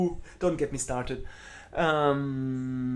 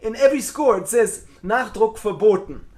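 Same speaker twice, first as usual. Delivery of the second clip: quoting his teacher; 6 semitones higher, 8 dB louder than usual. Retold or imitated. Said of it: "So he said".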